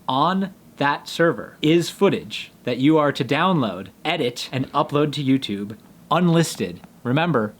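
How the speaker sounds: stiff, even robot voice. Real, not acted. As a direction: read it like a robot. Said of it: "Why am I speaking like a robot?".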